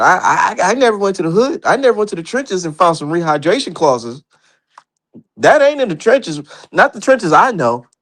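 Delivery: high, mocking disbelief; mocking rant. Real, not acted.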